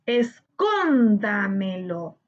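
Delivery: "Escóndamelo" slow and low, split es-cón-da-me-lo; syllable by syllable. Shown as a demonstration. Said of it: "debemos separar por sílabas". ("Escóndamelo" despacio, sílaba por sílaba)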